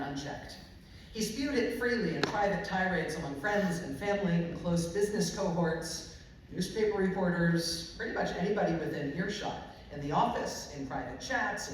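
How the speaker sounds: measured, emphatic nonfiction narration; deliberate public reading with pointed phrasing; book reading. Real, not acted. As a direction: read it aloud to an audience, weighting key words. Reads aloud from their book.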